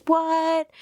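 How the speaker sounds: a high, pretend "What?"; fake surprise. To viewers, a pretend surprised "What?". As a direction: put on a showy surprise. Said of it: "I'll pretend to be like".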